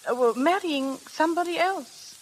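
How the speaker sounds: coached reply. Acted. Flora acting Bobby's answer to Rims, a hint of sorrow. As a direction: say it like a sad confession. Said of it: "And you'll reply".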